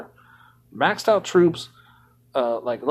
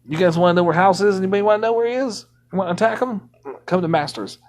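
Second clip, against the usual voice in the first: quick, pushed announcer-like hype; put-on voice; 3 semitones higher, faster than usual. Streamer rallies viewers to attack House in a put-on voice. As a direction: hype up the hunt. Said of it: "That voice actually started making me cough".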